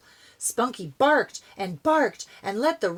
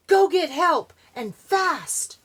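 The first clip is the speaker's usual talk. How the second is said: higher, louder urgent shout; urgent call; 8 semitones higher, 5 dB louder than usual. Acted. Boy calls to his dog, urgent cry. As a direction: yell it out, get help fast.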